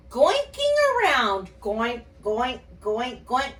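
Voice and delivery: bouncy goink noises; boing along like a pogo stick; silly monster sounds. Acted. Teacher voicing the monster bouncing, lightly silly. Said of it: "The purple monster says".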